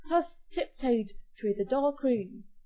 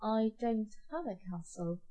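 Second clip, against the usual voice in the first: stalling start, then dropping away; reluctant, awkward admission; hesitant mutter; 7 dB louder, slower than usual. A narrator's reading. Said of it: "muttered Jack".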